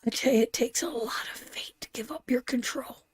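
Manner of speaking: hushed, breathy confiding whisper; soft spiritual whisper. Real, not acted. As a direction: lean in and whisper it like a secret. Intimate spiritual message to viewers.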